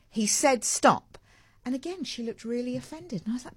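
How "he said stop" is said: slow, emphatic mild mock loud; retold firm rebuke. Mother telling off the tickling stranger, slow and firm. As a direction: spell each word out deliberately. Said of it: "and I said very loudly".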